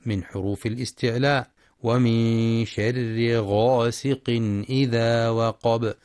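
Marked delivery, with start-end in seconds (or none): 1.8-5.9 slow measured tajwid chant; Quran recitation. Shown as a demonstration. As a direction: recite the verse slowly.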